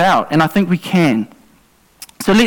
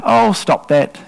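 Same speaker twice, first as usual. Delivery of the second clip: mild casual scold; slower than usual. Shown as a demonstration. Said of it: "You don't go".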